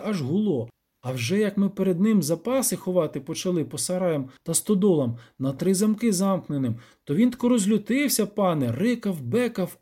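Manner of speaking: lightly voiced peasant, high and lively; villager telling troubles. Villager complaining of the devil, lightly acted peasant voice.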